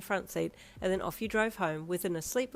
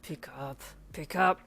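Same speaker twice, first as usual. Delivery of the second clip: impatient hiss; 3 semitones lower, slower than usual. A narrator's reading. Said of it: "he hissed to himself".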